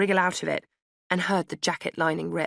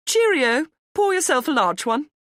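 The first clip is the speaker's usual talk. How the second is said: high, louder jolly farewell; cheery posh goodbye; 10 semitones higher, 7 dB louder than usual. A narrator's reading. Posh dog walker calling back as she walks on, high and jolly. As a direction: sing out a breezy posh cheerio.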